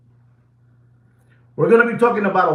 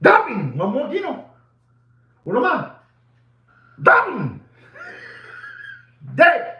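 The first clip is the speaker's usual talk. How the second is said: excited cheering; 10 semitones higher than usual. Real, not acted. Host cheering Gino on to keep going, excited high shouts.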